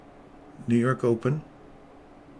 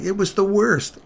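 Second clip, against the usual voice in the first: imitating wife; 10 semitones higher, 6 dB louder than usual. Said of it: "she was like".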